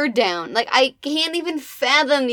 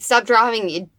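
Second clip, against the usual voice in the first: mock yell; 4 semitones lower than usual. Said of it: "comes at him like a fucking bat out of hell".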